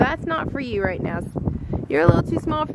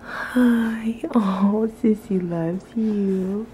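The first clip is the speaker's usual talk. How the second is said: whisper; 3 semitones lower, much slower than usual. Real, not acted. Mom whispering to baby in his crib.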